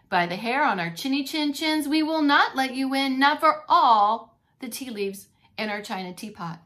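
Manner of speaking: loud, defiant refusal; loud defiance. Acted. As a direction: stand firm, say it loud. Wolves defiantly refuse the pig.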